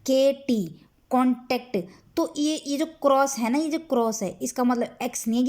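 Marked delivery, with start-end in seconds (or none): 1.1-1.8 कॉन्टैक्ट with the "टैक्ट" pressed; stress on T. Shown as a demonstration. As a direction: lean on the T that opens the second syllable of कॉन्टैक्ट. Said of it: "टी पे stress है". (कॉन्टैक्ट में ट पर दबाव)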